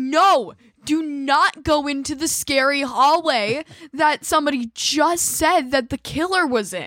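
put-on loud yell. Retelling yelling at the TV when characters make stupid decisions: imitating yelling at the TV. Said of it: "why are you yelling at the T V?".

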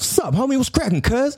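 Southern California street slang accent. Listing American regional speech styles, the speaker demos a SoCal street slang voice. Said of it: "Or you sound like me".

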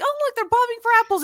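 very high, fast, loud, gleeful, cheery woman's voice.

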